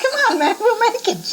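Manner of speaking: high, laughing mock urging; laughing excited plea. Narrator retells rushing late to Baba, laughing high.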